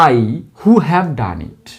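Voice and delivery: slow teacher dictation; slow model sentence. Shown as a demonstration. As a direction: spell it out slowly for students. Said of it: "আমি হুর পরে have রাখবো".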